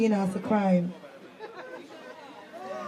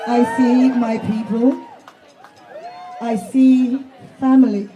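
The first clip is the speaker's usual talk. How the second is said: crowd call; 4 dB louder than usual. Real, not acted. Rally speaker addressing the crowd.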